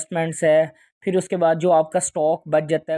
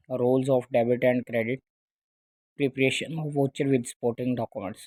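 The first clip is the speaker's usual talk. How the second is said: slowly dictated chapter title; slow, deliberate title announcement; slow title read; 5 semitones lower, 4 dB quieter, much slower than usual. Shown as a demonstration. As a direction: spell the title out slowly for students. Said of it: "teacher reads chapter title".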